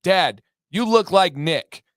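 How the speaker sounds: mock childish holler; imitating child's yell. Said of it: "she yelled at me twice".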